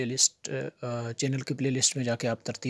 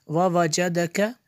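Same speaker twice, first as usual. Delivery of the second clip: measured, resonant teaching recitation; word-by-word recitation; 4 semitones higher, 6 dB louder, much slower than usual. Shown as a demonstration. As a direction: chant each word separately with held vowels. (एक-एक लफ़्ज़ लय में पढ़ना)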